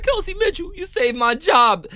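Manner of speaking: high-pitched fake weepy gratitude; mock crying. Streamer mocking coach thanking Kelsey Mitchell, mock crying. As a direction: wail it in a hammed-up cry, dragging the end. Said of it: "Stephanie White's gonna cry like".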